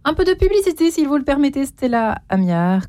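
bright, lifted host voice teasing what's next; radio host break announcement. Acted. Host to parents listening, lifting into the break. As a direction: sell the coming segment to listeners.

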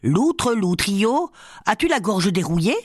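high tipsy call across the inn; drunken cry. Acted. Drunk mason calling the glutton at the table, high merry cry. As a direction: call out merrily, a bit drunk.

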